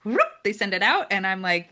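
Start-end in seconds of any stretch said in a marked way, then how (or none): 0.0-0.2 quick rising whoop; a playful sound effect for sending a message; imitated sending whoosh. Imitates a message being sent.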